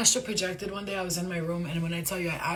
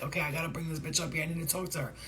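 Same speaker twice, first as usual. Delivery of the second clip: alien voice; 5 dB quieter, faster than usual. Retold or imitated. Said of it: "he was like".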